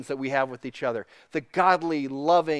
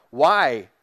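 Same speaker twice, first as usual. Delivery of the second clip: louder, mild retold yell of WHY; 7 dB louder than usual. Brother questioning God, retold yell. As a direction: call out WHY without a full yell. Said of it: "my natural reaction is to yell".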